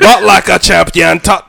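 slow, put-on Jamaican accent; fake Jamaican accent. Podcaster showing off his one impression, fake Jamaican accent. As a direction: stretch it out in mock Jamaican. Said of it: "do the same Jamaican accent".

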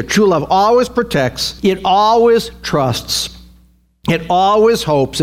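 deliberate emphasis on "always"; stress on ALWAYS. Shown as a demonstration. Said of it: "notice the always here".

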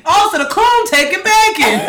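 put-on high, loud snotty child; bratty kid voice. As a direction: taunt like a spoiled kid. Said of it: "I would've said racist shit".

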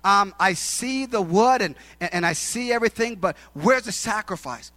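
a hint of a child calling to his father; son's questioning. Isaac asks his father about the sacrifice, hesitant questioning. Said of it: "his son says".

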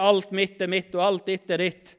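brisk, evenly run-together misquote; rejected version. Retold or imitated. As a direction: rattle off the wrong version without pauses. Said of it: "Han sier ikke det".

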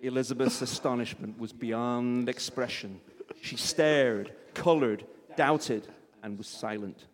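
lightly put-on American accent for narration; vaguely American. Reading Austen to a live audience, vaguely American accent. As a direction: read it out in a rough American accent. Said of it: "vaguely American voice".

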